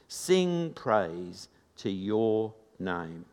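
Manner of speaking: slow, emphatic psalm reading; measured, declamatory Bible reading; scripture reading. Acted. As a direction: proclaim the psalm to a congregation, drawing out key words. Reads a psalm aloud.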